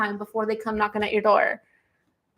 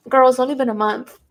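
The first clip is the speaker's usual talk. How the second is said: mock Andy Cohen; 5 dB louder than usual. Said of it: "And Andy Cohen is like".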